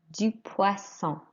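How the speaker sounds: "poisson" said slowly with a clear S in the middle; double S sound. Shown as a demonstration. Teacher models fish for repetition, slow clear S in "poisson". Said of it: "it's got a double S".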